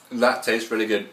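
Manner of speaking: talking with a sticky mouthful; words round a sticky bite; mouth full of almond butter. Real, not acted. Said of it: "my mouth is so sticky right now".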